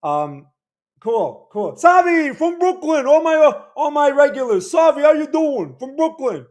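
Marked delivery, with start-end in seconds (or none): 1.7-6.5 high, loud hail to a regular; excited shouted greeting. Real, not acted. Streamer greets a regular from Brooklyn, shouting excitedly. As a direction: call out excitedly at a high pitch.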